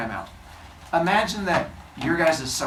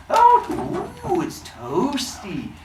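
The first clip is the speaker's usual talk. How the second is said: delighted cavemen; 12 semitones higher, much slower than usual. Acted. Humans warming by fire.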